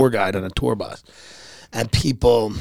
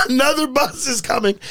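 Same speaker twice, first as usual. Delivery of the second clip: cheery guide call; 12 semitones higher than usual. Retold or imitated. Tour guide waving to tourists.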